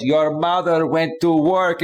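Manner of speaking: slow, drawn-out snarky dad quote. Retold or imitated. Dad teasing his child about mom going to work, snarky. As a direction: imitate a dad's teasing, deliberate delivery. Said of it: "he was being all snarky and funny".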